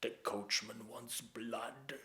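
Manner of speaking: slow, drawn-out movie vampire menace; hammed-up Dracula voice, slow and ominous; Lugosi. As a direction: drag it out like an old horror-film count. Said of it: "in his best Lugosi".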